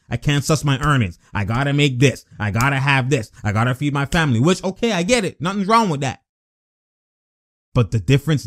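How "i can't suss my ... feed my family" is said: imitating a player. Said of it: "doing that Ed Davis type shit".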